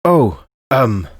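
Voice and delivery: jolted out of a daydream, flustered; startled stammer. Acted.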